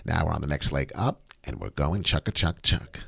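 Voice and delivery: ordinary talk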